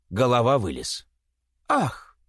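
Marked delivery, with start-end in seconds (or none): 1.7-2.2 high startled little cry; startled gasp. Acted. Girls seeing the head climb out of the sack, startled gasp. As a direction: gasp in surprise. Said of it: "вскрикнули девушки".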